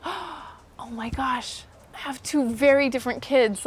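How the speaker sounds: slow, hushed stunned dad, lightly voiced; a hint of an awed father; a lightly voiced dad realizing his kids are nothing alike; dad's slow realization.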